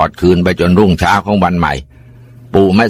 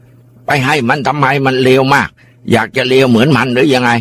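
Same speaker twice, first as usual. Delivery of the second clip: angry grandpa; 6 semitones higher than usual. Acted. Grandpa scolds father after beating.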